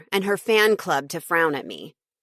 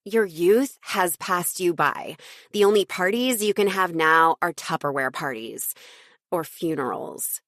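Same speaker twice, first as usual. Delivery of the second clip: mocking. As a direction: sneer it at the absent mother. Jenna mocking mother.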